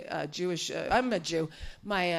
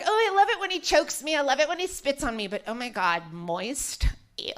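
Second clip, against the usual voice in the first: mock Gen Z girl; 5 semitones higher than usual. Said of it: "They're like".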